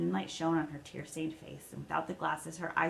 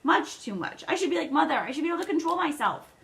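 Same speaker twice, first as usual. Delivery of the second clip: trembling over tears; 8 semitones higher, 6 dB louder than usual. A narrator's reading. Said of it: "Meg's voice came out trembling over tears".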